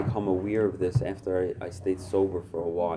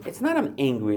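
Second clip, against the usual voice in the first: usual speaking voice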